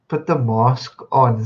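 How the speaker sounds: slow, lightly voiced mimic of Cyril's mask line; a light touch of Cyril, drawn out; Cyril style. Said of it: "Cyril style".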